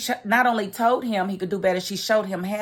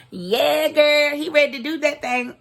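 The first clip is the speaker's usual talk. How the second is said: higher, excited cheer; gleeful hype; 7 semitones higher, 4 dB louder than usual. Real, not acted. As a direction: hype her up, voice pitched up. Gleeful hype after teasing line.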